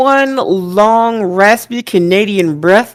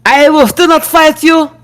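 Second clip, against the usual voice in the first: mock Gunther; 8 semitones higher than usual. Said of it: "And Gunther's like".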